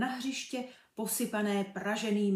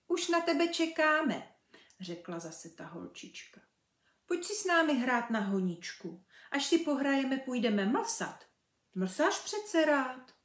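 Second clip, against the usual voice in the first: put-on higher, louder girlish coaxing; playful little girl; 4 semitones higher, 4 dB louder than usual. Girl coaxing Birlibán to join, playful. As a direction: coax him sweetly to play.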